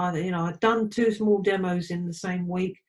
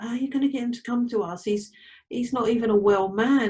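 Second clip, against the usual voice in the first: incredulous disbelief; 4 semitones higher, faster than usual. Retold or imitated. Incredulous retold inner thought.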